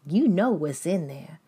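high, mocking praise of a bystander; mock onlookers. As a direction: tease them like an impressed bystander. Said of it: "people are looking at them saying".

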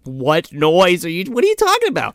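very high mock-innocent girl. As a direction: play dumb in a squeaky voice. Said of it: "And I'm like".

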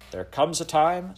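a firm stand against the rules; firmly. A narrator's reading. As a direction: lay down the law, slowly. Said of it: "said Eliza firmly".

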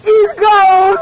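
blurted out through tears; a tearful confession to her father; crying. Acted. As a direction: break down as you say it. Telling father the fiancé left.

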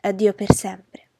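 slow, heavy farewell; despairing farewell. Acted. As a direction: drag each word out in despair. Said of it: "La disperazione aggiunse". (addio lento e disperato)

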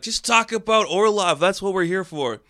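impatient viewer. Retold or imitated. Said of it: "you're probably here like".

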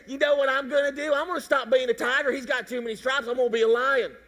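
playful mock tiger declaring a change; lightly voiced tiger with a laugh at the end; tiger deciding. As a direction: announce it like a silly decision. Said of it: "wake up one day and say".

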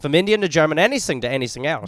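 put-on German accent, showing off. Shown as a demonstration. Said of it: "That's German?".

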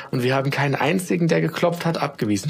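put-on high, quick and proud child; proud little girl, a touch fast; beaming proudly. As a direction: burst out with pride. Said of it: "strahlte Julia ganz stolz".

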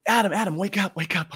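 high, eager rousing of a sleeper; urgent and thrilled, pitched well up; excited wake-up call. Acted. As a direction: play God bursting to share news. God rouses Adam excitedly.

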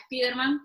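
"Spiderman" read as Spanish, es-PI-der-man; hispanicised "Spiderman", vowels as written; Spanish pronunciation. Shown as a demonstration. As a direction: say "Spiderman" with an ee in the first syllable. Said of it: "españolizarse también es decir inclusive".

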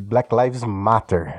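"Black Lives Matter" repeated slowly in English, falling on "Lives"; English pronunciation. Shown as a demonstration. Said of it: "Como é que eu falei?".

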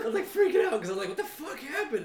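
high, laughing freaked-out retelling; laughing panic. Retold or imitated. Telling friends about the concert chaos, high and laughing. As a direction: laugh through the memory of panic.

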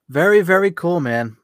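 loud, high enthusiastic praise; really mean it, big and bright; excited. Real, not acted. Host enthusing over guest's news.

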